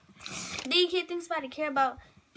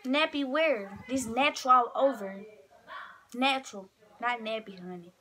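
sassy clapback; 3 dB louder than usual. Real, not acted. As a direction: clap back with attitude.

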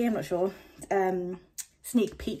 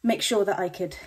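out of breath. Real, not acted. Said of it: "sorry, I'm really out of breath".

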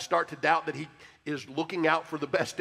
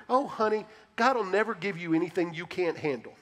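put-on sweet voice; 3 semitones higher than usual. Preacher mocking bad comfort in a sugary voice. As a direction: coo it like a well-meaning auntie. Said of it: "I don't know why I'm gonna use this voice".

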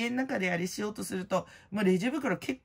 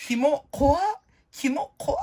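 high, loud mock squeal of disgust; mock creeped-out cry; 8 semitones higher, 5 dB louder, slower than usual. To herself at the sudden blog traffic, a mock creeped-out squeal. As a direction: shriek it like something gross crawled up.

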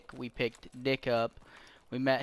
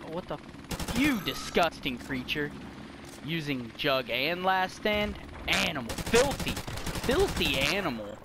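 mock insult; 3 semitones higher than usual. Real, not acted. Insulting opponent in game.

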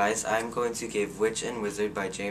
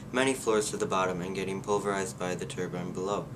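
reading aloud. A narrator's reading. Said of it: "Allow me to read you a selection".

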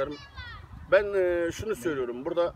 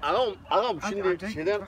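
put-on Antep accent; 4 semitones higher than usual. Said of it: "Abi bir de Antep şivesiyle konuşsana".

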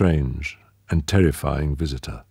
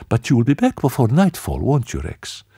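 put-on young woman voice; 7 semitones higher than usual. A narrator's reading. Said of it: "she said evenly".

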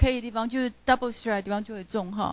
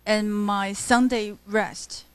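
slow scansion reading; 3 semitones lower, slower than usual. Shown as a demonstration. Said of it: "let's take a look at how Kevin did the scanning".

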